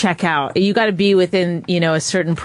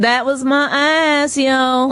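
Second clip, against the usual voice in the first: slow, higher street voice; Black accent; 6 semitones higher, much slower than usual. Shown as a demonstration. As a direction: drawl it out with attitude. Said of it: "can a black person please call".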